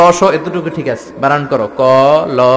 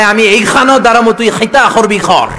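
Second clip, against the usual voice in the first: higher, louder Sylheti mimicry; Sylheti speech; 6 semitones higher, 3 dB louder than usual. Sylheti man answers the preacher, loud mock Sylheti. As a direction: put k sounds into kh like a Sylheti. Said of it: "সিলেটিরা পুরা উল্টা".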